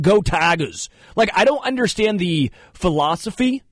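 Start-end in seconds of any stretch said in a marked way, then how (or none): 0.0-0.9 lightly put-on Louisiana drawl; Louisiana accent. Host imitating a newcomer picking up Louisiana talk, mild Louisiana accent. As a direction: toss it out as a mock Louisiana fan cheer. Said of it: "a whole bunch of people from Louisiana".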